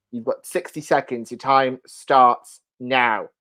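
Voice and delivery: slow, drawn-out countdown call; game-show start. Real, not acted. Host starts the sixty-second clock for Morgan. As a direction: stretch it out like a quiz host.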